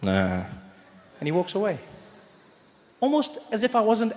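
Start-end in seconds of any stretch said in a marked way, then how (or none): 0.0-0.4 deep, low dismissive nah. Retold or imitated. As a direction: brush it off in a low voice. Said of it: "then he's like".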